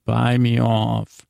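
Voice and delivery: slow, smiling "Buy me off" with a grin; smiling repeat. Retold or imitated. Son to camera after dad's offer, slow and smiling. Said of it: "He makes this big smile".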